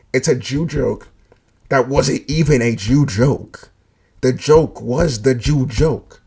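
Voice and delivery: slow, loud, drawn-out emphasis; emphatic slow punchline. Real, not acted. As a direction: spell out the joke slowly. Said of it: "I sound fucking stupid saying that".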